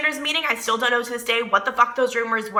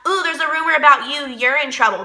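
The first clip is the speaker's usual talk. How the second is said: mocking tattletale; 3 semitones higher than usual.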